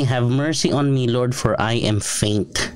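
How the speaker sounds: slow, pleading reading of the plea. Shown as a demonstration. Pastor rereading David's prayer, slow and pleading. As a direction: plead it slowly.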